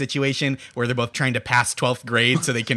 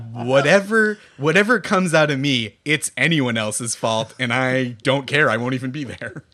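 careless Trump impression. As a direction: toss it off like you don't care. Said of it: "He's just like".

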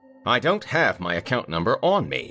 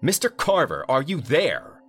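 much higher, louder caller calling out; booming; 11 semitones higher, 4 dB louder than usual. A narrator's reading. Vineyard owner on hold, booming into the phone. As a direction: boom down the line, impatient. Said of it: "the voice boomed".

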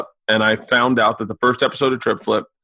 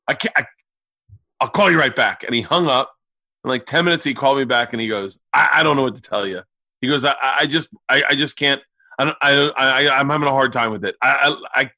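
flustered dad; 3 semitones higher than usual. Retold or imitated. Dad at a loss, stammering on phone.

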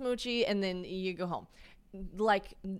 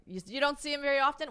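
higher-pitched, shaky attempt at a Dutch accent; 7 semitones higher, faster than usual. Storyteller imitating her Dutch date, attempted Dutch accent. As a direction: try a Dutch accent, not quite getting it. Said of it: "Why am I trying to do the accent?".

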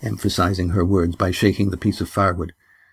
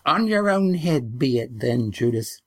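put-on a lightly higher old woman's warning; parting warning; 4 semitones higher than usual. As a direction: leave her with it, a touch high.

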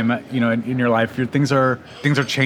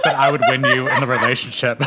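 laughing. Real, not acted. Joking while laughing.

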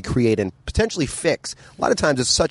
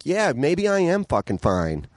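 mock giving in; 6 semitones higher, slower than usual. Voicing his own giving in.

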